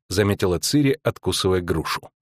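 usual speaking voice

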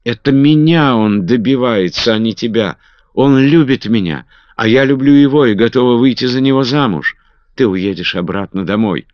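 high, loud pleading cry; high loud desperate plea to her cousin. A narrator's reading. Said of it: "с криком бросилась к Маргарет".

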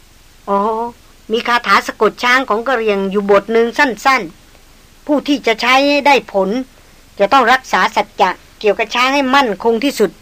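calm hunter. Acted.

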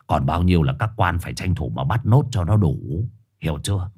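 gruff dog. Acted. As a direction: lecture the greenhorn. Dog lectures Trùn.

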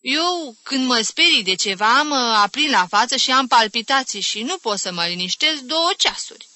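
high, lilting list of sufferings; plaintive complaint. Acted. Aunt telling the others her palpitations, plaintive. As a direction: claim your share of the pity.

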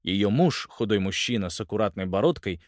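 ordinary delivery, nothing marked

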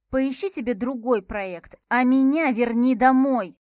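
loud, furious demand rising to a shout; spat out in anger. Acted. Heroine hurls her demand at Max, angry shout. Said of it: "выплюнула я".

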